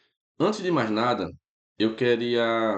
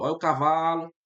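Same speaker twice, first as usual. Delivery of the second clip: cavalo with the va leaned on, a bit higher; stress on cavalo; 3 semitones higher than usual. Shown as a demonstration. Teacher showing students the strong syllable, stressed demo. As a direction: press the middle syllable va of cavalo. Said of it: "se você vender a palavra cavalo".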